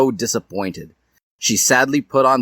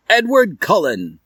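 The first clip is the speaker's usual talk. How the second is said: calling out; 10 semitones higher, 4 dB louder than usual. Acted. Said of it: "said the hat".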